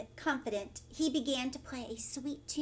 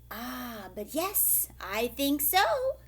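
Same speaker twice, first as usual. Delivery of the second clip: slow, firm and louder at the end; 4 dB louder, slower than usual. Acted. Leprechaun insisting to old Pat, slow and firm. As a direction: settle it firmly. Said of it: "answered the leprechaun firmly".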